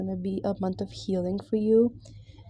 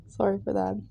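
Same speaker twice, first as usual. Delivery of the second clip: whispering. Real, not acted. Apology after coughing.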